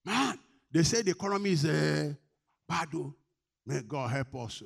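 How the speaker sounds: high, loud mock alarm, easing off at the end; alarmed news-spreader. Believer spreading news of a bad economy, mock alarm. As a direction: imitate someone excitedly passing on bad news. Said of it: "we carry it in".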